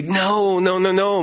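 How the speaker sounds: mildly flustered, stammered objection; stammering protest. Acted. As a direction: protest in a light mock stammer. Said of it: "Moses says, stammering".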